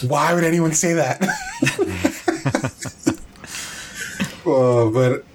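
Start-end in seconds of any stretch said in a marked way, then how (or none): 0.1-1.2 laughing. Retold or imitated. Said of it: "And I'm like". 1.3-3.2 laughing. Real, not acted. Big laugh after quote.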